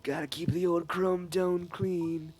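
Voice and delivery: put-on laid-back surfer with old man edge; slow, easygoing surfer drawl; old surfer dude. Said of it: "a mix of an old guy and a surfer dude".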